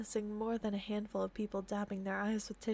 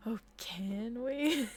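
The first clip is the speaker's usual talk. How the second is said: coy question; much slower than usual. Real, not acted. Coy aside to listener.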